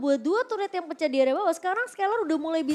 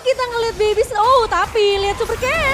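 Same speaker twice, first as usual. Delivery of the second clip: excited; 6 semitones higher, 8 dB louder than usual. Real, not acted. Co-caster reacts to fight.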